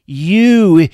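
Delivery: loud, mock French villain; hammed-up French accent, loud. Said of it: "I'm not gonna do the accent very long".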